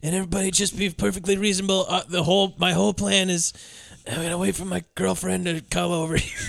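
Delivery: a hint of a self-satisfied Rourke, quietly; Mickey Rourke. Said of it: "being like".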